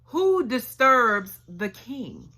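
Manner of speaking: slow, booming guard challenge; commander shouting. Retold or imitated. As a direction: demand who goes there. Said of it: "Abner shouts out".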